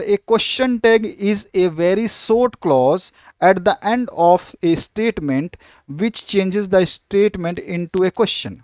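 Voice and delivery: very slow, spaced dictation read; teacher dictating a definition slowly. Shown as a demonstration. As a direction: read it out word by word for notes.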